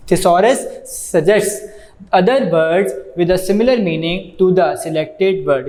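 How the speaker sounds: very slow, word-by-word reading from the book; slow textbook reading. Acted. Teacher reading the book aloud to students, slow dictation.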